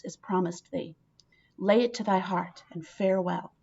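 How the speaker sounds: reads the letter aloud with measured weight; dramatic reading. Acted. Teacher reading the letter to her class, measured and dramatic. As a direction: give the old verse room to breathe.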